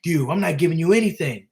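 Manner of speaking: lightly voiced defiant tough guy, rising high and fast; a hint of a cocky debtor getting heated; defiant refusal. Debtor refusing to pay the collector, lightly acted defiance. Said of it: "this guy's like".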